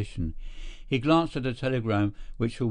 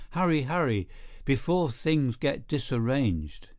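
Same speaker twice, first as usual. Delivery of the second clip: urgent; 2 semitones higher than usual. Acted. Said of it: "all energy in an instant".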